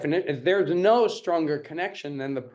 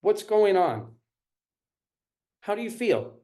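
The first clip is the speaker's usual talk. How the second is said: caring question; 5 semitones higher than usual. Shown as a demonstration. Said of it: "questions to create connection".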